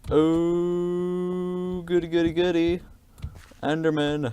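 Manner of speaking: high squeaky delight; sing-song goody goody glee; gleeful. Real, not acted. Gleeful at finding Enderman.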